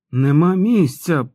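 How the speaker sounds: high, loud, drawn-out strained cry; croaked. A narrator's reading. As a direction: force it out slowly, as if choking. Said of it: "прохрипів чувак сміттєбак".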